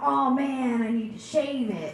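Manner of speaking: the milder complaint, said the same; exasperated groan. Retold or imitated.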